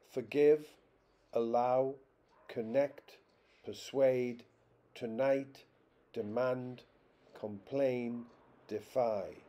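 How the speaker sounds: "forgive, allow, connect, persuade, tonight, demand, complain, defy", each stressed on the second syllable; spaced word list, weak first syllable and strong second in each, from "forgive" to "defy". Shown as a demonstration. Lecturer listing two-syllable examples, each stressed on the second syllable. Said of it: "primary stress on the second syllable".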